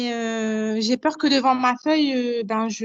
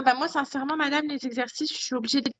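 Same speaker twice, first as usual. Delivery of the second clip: phone held away; 5 dB quieter, faster than usual. Real, not acted. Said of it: "ça a été coupé, on comprend pas bien ce que tu dis".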